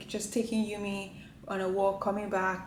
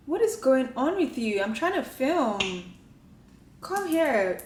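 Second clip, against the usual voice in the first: higher, louder pleading scold; exasperated with pet; 4 semitones higher, 4 dB louder than usual. Real, not acted. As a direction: plead with a pet that keeps interrupting. Exasperated at pet interrupting filming.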